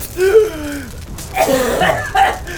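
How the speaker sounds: loud high-pitched cackling laugh; high cackle. Acted. Jenkins returns laughing.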